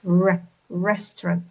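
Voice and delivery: bare "r", then "restaurant" with a careful first "r"; R sound demonstration. Shown as a demonstration. Teacher mimics native speakers' r, careful model pronunciation. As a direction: isolate "r", then say "restaurant" clearly. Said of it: "position of your tongue and the airflow".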